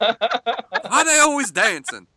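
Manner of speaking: slow, loud, laughing redneck. Retold or imitated. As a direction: hillbilly voice cracking up. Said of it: "in, like, a redneck voice".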